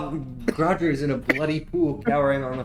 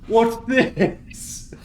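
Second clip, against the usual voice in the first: higher, intrigued goblin squeak; curious goblin; 9 semitones higher, 4 dB louder than usual. Acted. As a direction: pick it up wondering. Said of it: "goblin finds amulet".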